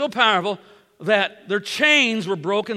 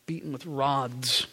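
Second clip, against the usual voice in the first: quiet repeat; 6 semitones lower, 8 dB quieter than usual. Acted. Repeating the torture for weight.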